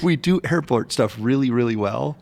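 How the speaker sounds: mock quote cracking up with laughter; laughing while quoting. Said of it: "you're like".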